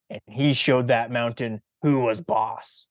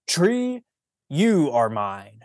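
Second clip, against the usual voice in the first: grand claim; 2 semitones higher, slower than usual. Acted. Fausto calling out to the tree, slow and commanding. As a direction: summon the tree, then slowly claim it.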